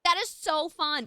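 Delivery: high, loud, thrilled gush; excited. Real, not acted. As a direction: squeal it with delight. Delighted at a viewer's event news.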